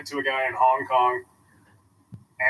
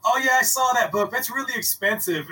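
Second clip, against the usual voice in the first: high mock customer voice; 6 semitones higher than usual.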